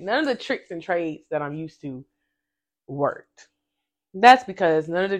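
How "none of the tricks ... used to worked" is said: softer, hushed echo of the line; quiet spirit-voice repeat; inner voice. Shown as a demonstration. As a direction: say it like a voice heard within. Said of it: "I just heard that in my spirit".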